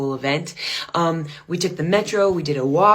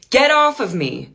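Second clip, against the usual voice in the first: annoyed demand; 6 semitones higher, 4 dB louder than usual. Retold or imitated. Stripper telling her off.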